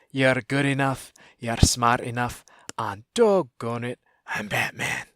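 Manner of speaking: light Scottish accent pep line; a hint of a Scottish accent, building to the punchline; lightly voiced Scottish accent. Shown as a demonstration. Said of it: "in a Scottish accent, such as".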